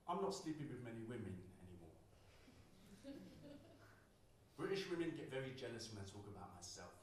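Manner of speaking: spoken word poem, rhythmic and performed; poem performance. Acted. Poet performing his poem about voice on stage, rhythmic.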